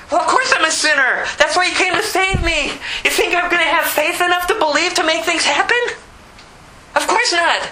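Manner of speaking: high-pitched, exasperated confession; worked-up cry of a helpless sinner; impassioned protest. Acted. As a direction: plead helplessness to God, insistently. Acted protest of helpless sinner to God.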